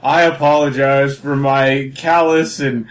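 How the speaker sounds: slow, solemn mock apology; lightly acted formal public confession; Dick Van Dyke. Actor apologizing town to town for his Cockney accent, slow mock apology. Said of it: "goes town to town".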